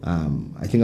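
a bit tipsy, loose and sweary. Real, not acted. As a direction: let the drink loosen the words. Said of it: "I'm swearing a lot 'cause I'm getting tipsy".

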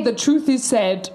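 slow, understated imitation of a deadpan character; matter-of-fact. Quoting the detective's dark line, matter-of-fact. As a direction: state it calmly and slowly, imitating him. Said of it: "he's so matter of fact".

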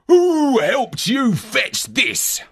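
slow, suspicious giant voice; dim giant cyclops. Acted. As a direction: drag it out, suspicious. Giant questions the boy.

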